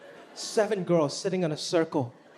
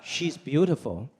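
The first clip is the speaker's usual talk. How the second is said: dad appraising; 6 semitones lower, much slower than usual. Retold or imitated. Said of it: "He would be like".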